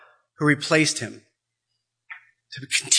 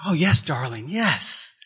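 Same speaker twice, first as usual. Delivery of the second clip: tender reassurance. Acted. Sister comforting the girl.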